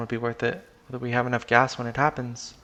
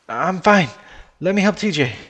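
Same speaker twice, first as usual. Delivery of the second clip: raised, loud urgent refusal; insistent shout; 5 semitones higher, 8 dB louder than usual. Acted. Chase pushes friend away to help another, insistent shout. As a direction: shout the helper off.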